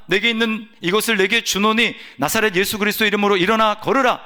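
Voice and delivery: firm declaration in an apostle's words; 믿음의 선포. Retold or imitated. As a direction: proclaim it aloud with conviction. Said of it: "입으로 얘기를 합니다". (믿음으로 힘주어 선포하듯)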